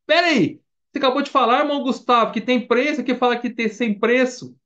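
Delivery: high-pitched interrupting protest; acted incredulous listener; baffled objection.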